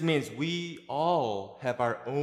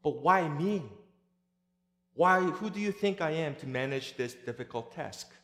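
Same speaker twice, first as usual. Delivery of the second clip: reluctant Moses; 5 semitones higher than usual. Acted. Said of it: "Instead, Moses replied".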